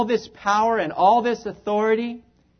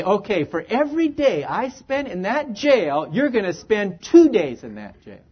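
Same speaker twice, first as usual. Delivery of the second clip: mock vengeful threat; 2 semitones higher, 3 dB louder than usual. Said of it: "I'm gonna say".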